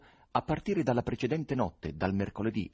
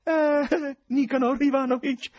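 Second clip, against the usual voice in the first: high, loud, effusive greeting; cordial exclamation; 7 dB louder, slower than usual. A narrator's reading. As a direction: exclaim the name with gushing cordiality. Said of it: "esclamò lo sconosciuto con voce cordiale". (esclamazione cordiale, acuta e forte)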